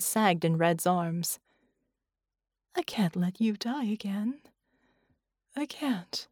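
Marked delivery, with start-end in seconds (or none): 2.7-6.3 whispered, softer plea; broken whisper. A narrator's reading. Woman begging Red not to die again, whispered in despair. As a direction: let it crack into a whisper. Woman breaking down, refusing his death.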